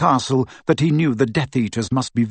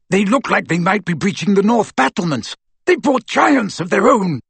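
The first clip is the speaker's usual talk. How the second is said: raised, high battle report; urgent warning, pitched up; 8 semitones higher than usual. A narrator's reading. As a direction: call out the alarm to fighters. Aberforth reporting the attack urgently.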